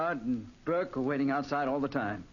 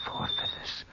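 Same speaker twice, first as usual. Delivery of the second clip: rising fearful cry; slower than usual. Acted. Counting the vanishing feathers.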